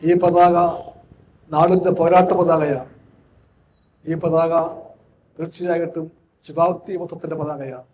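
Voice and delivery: rousing speech to the comrades; rally speech. Acted. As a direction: declaim it like a flag-hoisting orator. Flag-hoisting address to comrades.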